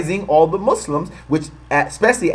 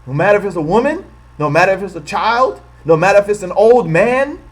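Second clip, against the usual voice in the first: higher, louder sneering mimicry of a bigot; mock bigot voice; 6 semitones higher, 4 dB louder than usual. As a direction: parody the hateful logic, pitched up and pushed. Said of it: "you say".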